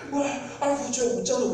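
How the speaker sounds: oh no, look at him; exasperated exclaim. Retold or imitated. Audience exclaims at careless hero. (관객이 주인공에게 기막혀 탄식하듯)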